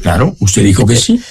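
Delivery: ironía seca, sin alzar la voz; muy sarcástico. Real, not acted. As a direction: finge darle la razón, con sorna. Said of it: "muy sarcástico, César Hildebrand". (sarcasmo contenido)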